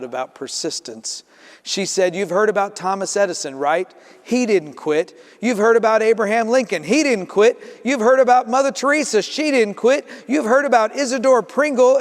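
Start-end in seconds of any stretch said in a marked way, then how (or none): 2.1-12.0 mom lecturing, climbing higher and louder; preachy mom. Acted. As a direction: build the pep talk line by line. Mother lecturing child on persistence.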